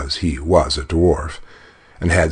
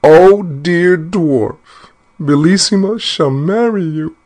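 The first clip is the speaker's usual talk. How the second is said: high, loud, slow, drawn-out plea; loud desperate cry; 13 semitones higher, 6 dB louder than usual. Acted. Terrified queen calling to the dwarf as lions charge, loud pleading cry. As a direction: cry it out as loud as she can. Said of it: "cried out as loud as she could".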